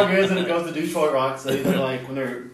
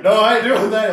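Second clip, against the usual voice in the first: mock refusal; 8 semitones higher, 9 dB louder than usual. A rock guitarist refuses.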